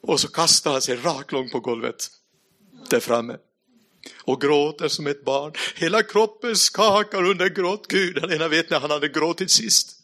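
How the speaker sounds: ordinary talk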